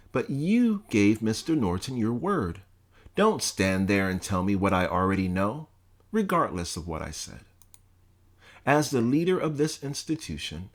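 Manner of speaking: lightly voiced stern president, scolding; a hint of a contemptuous scolding principal; stern college president. Bledsoe berating the student, mildly stern scolding.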